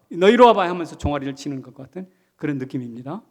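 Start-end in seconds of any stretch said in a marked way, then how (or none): 0.1-0.7 grandfather scolding. Retold or imitated. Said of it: "마치 할아버지가 손자".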